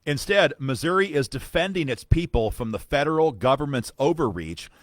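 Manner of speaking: emphatic, declamatory reading of an official letter; letter read aloud. Acted. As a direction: read it out firmly like a formal rebuttal.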